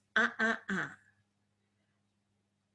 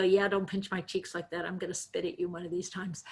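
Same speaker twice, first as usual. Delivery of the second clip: grumbling retort; 3 semitones lower, 5 dB quieter than usual. Retold or imitated. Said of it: "those aunts that you just wanna go".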